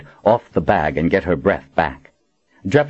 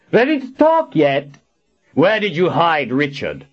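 high, raised-voice demand; harsh interrogation; 9 semitones higher than usual. Acted. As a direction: press the prisoner hard, pitch up. Captor interrogating his tortured prisoner.

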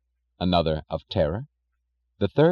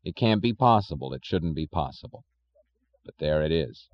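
weary sorrow; 4 semitones lower than usual. Acted. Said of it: "he said wearily".

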